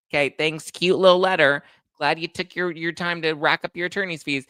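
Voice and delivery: high, loud mock thanks; hammed-up dismissive gratitude; sarcastic reply. Sarcastic imagined reply to the attorney's letter.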